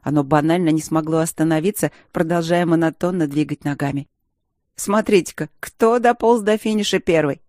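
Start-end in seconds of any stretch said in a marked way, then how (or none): 4.8-7.4 mocking, sneering tease; snide. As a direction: needle her with a smirk. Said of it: "ехидно начал Джером".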